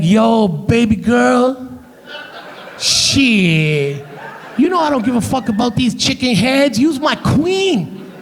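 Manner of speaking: put-on drawn-out, sweet-talking Black American accent. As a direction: sweet-talk her in imitated African American English. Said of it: "put on that sweet, sweet black scent".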